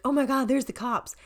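imitating a friend spotting the cops; alarmed. Friend hiding behind a car, alarmed. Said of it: "one of my friends was like".

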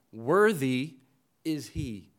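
"Worthy" hit loud, then a pause; stress on Worthy. Shown as a demonstration. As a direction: land hard on "Worthy", then let "is he" drop. Stressing the word put first.

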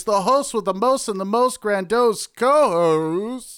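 grandiose announcer. Acted. Grandiose host intro.

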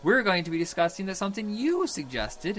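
loud booming hero voice; bold heroic voice. Acted. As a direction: boom it out like a superhero. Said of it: "I'm using my hero voice for the rest of this episode".

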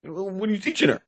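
high, pointed mock question; wife demanding an explanation; suspicious mom. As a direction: press him like a wary wife. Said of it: "mom questioning".

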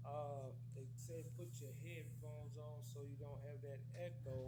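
faint, distant, echoey call; far from mic. Real, not acted. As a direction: remote line, far from the mic. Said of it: "Sounds like you're far away".

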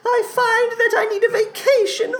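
eerie storytelling in a theatrical creature voice; Salad Fingers. Acted. Creature recounts begging on a hell vacation, plaintive and creepy. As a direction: lament with stretched, quavering vowels.

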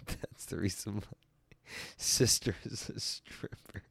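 breaking up laughing through the words. Real, not acted. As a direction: lose your voice to laughter. Cracks up reading a comment.

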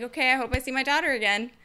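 quick, offhand farewell; mom's shrugging parting line; casual mom. Retold or imitated. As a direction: toss it off lightly. Same line told again casually.

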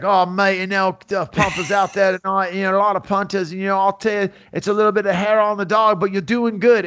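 Mick's thick accent, imitated with a light touch. Sound man chatting while rolling a joint, in a thick accent. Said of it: "one of those accents that's so thick".

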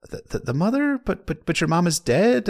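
baffled stammer at the mother; confused. Acted. Salladhor puzzled by Davos's mother talk, stammering surprise. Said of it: "Salladhor sounds a little confused here".

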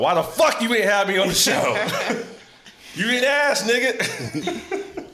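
mock angry brother. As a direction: play the cussing brother, laughing. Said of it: "was just cussing me out".

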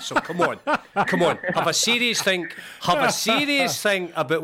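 laughing through a playful push. Real, not acted. Host teasing the striker about switching to Scotland, laughing. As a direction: chuckle while urging him on.

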